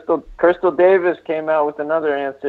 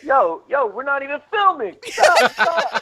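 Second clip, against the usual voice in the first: urgent pleading; 12 semitones higher than usual. Retold or imitated. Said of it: "I was like".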